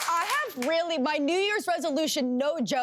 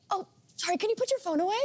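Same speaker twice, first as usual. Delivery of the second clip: sweetly polite; 6 semitones higher, faster than usual. Retold or imitated. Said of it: "in a really nice tone".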